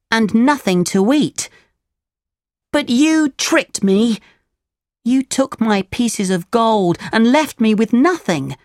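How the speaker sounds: put-on high-pitched puppet boy voice; Pinocchio, defiant. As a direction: scold them as a high-voiced little puppet.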